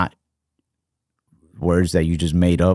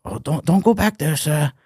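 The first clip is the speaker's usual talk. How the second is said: imitating the Asian character; 8 semitones higher than usual. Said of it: "how'd the Asian guy sound?".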